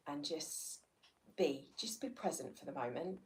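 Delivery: unhurried meditation-guide voice with pauses; guided meditation. Real, not acted. Teacher guiding listeners to tune into the body, guided meditation. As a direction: invite them gently inward, leaving space between phrases.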